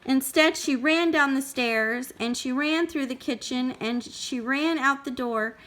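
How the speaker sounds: put-on measured storytelling for a small child; story read-aloud. A narrator's reading. Parent reading Goldilocks to a child, expressive storytelling.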